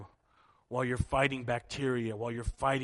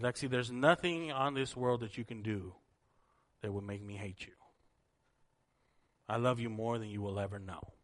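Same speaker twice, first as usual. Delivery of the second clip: slightly lowered, gentle reassurance; tender reassurance; 2 semitones lower than usual. Retold or imitated. Adult kneeling eye level with a guilty child, tender reassurance. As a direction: reassure her sincerely, with unhurried pauses.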